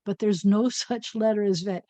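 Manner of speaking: "no such letter" with a small laugh; laughing secret. Real, not acted. Teacher letting children in on a secret, amused. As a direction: giggle through the secret. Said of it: "Pretend I didn't tell you that".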